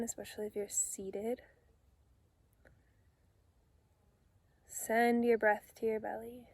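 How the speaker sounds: calm meditation guide with long pauses between phrases; unhurried, soothing instructions, phrase by phrase; guided meditation. Real, not acted. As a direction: gently lead them into relaxation, leaving space to breathe.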